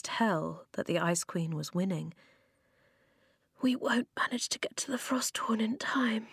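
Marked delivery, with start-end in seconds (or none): 3.6-6.3 hushed, higher whisper. A narrator's reading. Eska to Flint about reaching the Frosthorn in time, whispering. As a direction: whisper it softly under the breath. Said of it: "Eska whispered".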